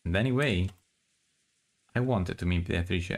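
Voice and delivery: story narration. Acted. Reads the novel aloud.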